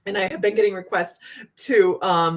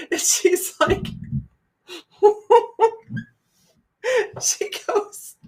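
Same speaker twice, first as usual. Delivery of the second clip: words squeezed out through laughter; can barely get it out for laughing; 12 semitones higher, slower than usual. Real, not acted. Telling friends the story, breaking up with laughter. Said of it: "just cracks me up".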